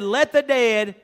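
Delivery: Jesus' command. Retold or imitated. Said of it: "Jesus said".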